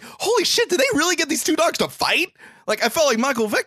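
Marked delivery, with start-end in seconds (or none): 0.0-2.3 high, stunned holy shit; retelling his shock at the screen; amazed disbelief. Retold or imitated. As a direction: gasp it out in disbelief. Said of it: "I'm like".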